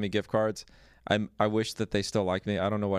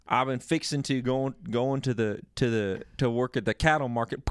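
lightly imitated Southern speech; mock Southern accent. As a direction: tease with a mild Southern accent. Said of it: "off the pod voice sound like".

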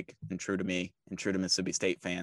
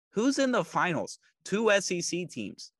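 triumphant gloat; 10 semitones higher than usual. Real, not acted. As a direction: crow it at the doubters. Triumphant rhetorical gloat at critics.

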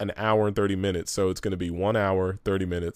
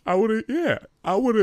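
high mock voice; 10 semitones higher, 4 dB louder than usual. Mock agreeing voice.

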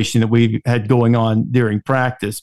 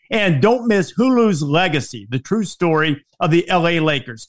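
upbeat sponsor read; 2 semitones higher than usual. Acted. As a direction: read it like a podcast ad. Host reads sponsor ads.

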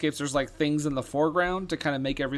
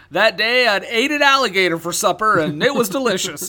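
loud storybook narrator voice; deadpan narrator; 6 semitones higher, 7 dB louder than usual. Pretend. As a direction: narrate nonsense with a straight face. Acting a lying narrator.

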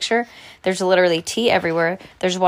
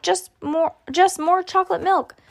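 put-on very high kid voice; high-pitched childish plea; pleading little brother; 11 semitones higher than usual. A narrator's reading. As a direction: beg like a small child.

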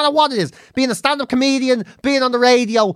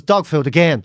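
sceptical guard; 8 semitones lower, slower than usual. Retold or imitated.

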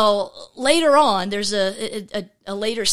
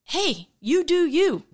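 breezy catchphrase; 7 semitones higher than usual. Retold or imitated. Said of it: "with phrases like".

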